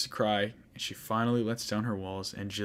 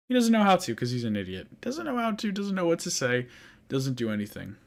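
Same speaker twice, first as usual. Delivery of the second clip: higher, mocking exasperation at the clueless hero; exasperated; 4 semitones higher than usual. Real, not acted. Vlogger mocking the hero who can't speak up, high exasperation. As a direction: squeak it out in disbelief.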